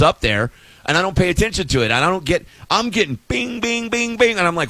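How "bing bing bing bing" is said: high, light pinging; playful pings at a high pitch; imitated notification pings. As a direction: mimic phone alerts going off.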